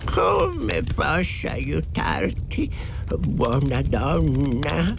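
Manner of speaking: put-on slow storybook old-timer; old farmer. A narrator's reading. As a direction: drag the words out like an elderly countryman. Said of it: "chiese il vecchietto".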